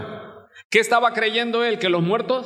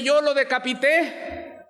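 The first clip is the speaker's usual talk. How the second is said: Herod; 7 semitones higher than usual. Retold or imitated. Herod insists to his court the beheaded John can't be alive, panicked shout. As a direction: blurt it out like a king rattled by guilt. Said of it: "Herodes dice".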